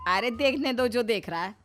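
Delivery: brushing off the staring neighbours; carefree mother-in-law. Acted. Narrator voices mother-in-law.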